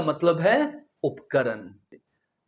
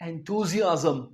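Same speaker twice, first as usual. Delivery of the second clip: enthusiasm drawn out very slowly, syllable by syllable; teacher modelling enthusiasm slowly; slow model word; much slower than usual. Shown as a demonstration. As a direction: stretch enthusiasm out for students to copy. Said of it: "क्या कहेंगे?".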